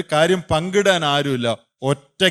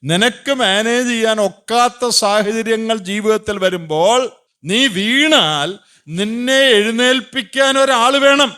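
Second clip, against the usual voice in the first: higher, louder, slow preaching; preacher booming a scripture warning, higher and slow; forceful scripture; 7 semitones higher, 5 dB louder, slower than usual. Retold or imitated. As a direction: thunder the Bible's answer slowly. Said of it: "വേദോസ്തം പറയാ".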